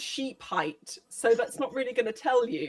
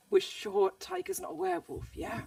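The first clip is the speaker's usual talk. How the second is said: softer, higher in-character aside; whisper; 7 semitones higher, 6 dB quieter than usual. Acted. Player's character checking with Henrik about a werewolf, hushed aside. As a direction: lean in and check quietly, half-whispered. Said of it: "lean in and whisper to Henrik".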